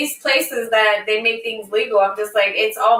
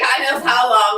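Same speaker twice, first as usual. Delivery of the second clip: dragged-out imitation; 2 semitones higher, slower than usual. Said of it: "you're dragging it".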